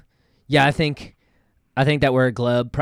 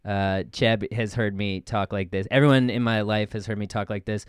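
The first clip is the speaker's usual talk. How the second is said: dropped into a lower, everyday voice; lower, matter-of-fact natural register; normal voice; 4 semitones lower than usual. Shown as a demonstration. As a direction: drop the put-on character, talk lower and plainer. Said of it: "This is my normal voice right here".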